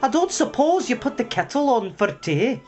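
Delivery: put-on high, Irish-accented needling; sarcastic. Young mouse needling the late hare, sarcastic. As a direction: ask with mock sweetness. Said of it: "he said sarcastically".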